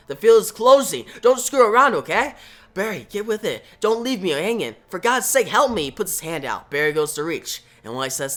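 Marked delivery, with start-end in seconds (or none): 0.1-5.8 higher-pitched, pressing appeal; urgent plea. Acted. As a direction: beg for help as time runs out. Wally begs as field closes.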